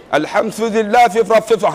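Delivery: slurred "alhamdulillah" with hissy, gummy consonants; toothless. Retold or imitated. Showing listeners how a toothless man recites, gummy and slurred. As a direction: say "alhamdulillah" as if you had no teeth. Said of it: "kalau tak ada gigi".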